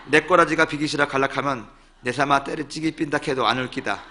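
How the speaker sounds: comic poem in Gyeongsang dialect; Busan-area Gyeongsang accent for laughs. Shown as a demonstration. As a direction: recite it in blunt Gyeongsang satoori. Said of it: "이 경상도 버전은 이 진달래꽃을 이렇게 얘기하더라고요".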